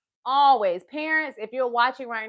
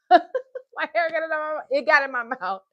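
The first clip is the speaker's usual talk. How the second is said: laughing; 5 semitones higher, 5 dB louder than usual. Real, not acted. Hair caught in her mouth.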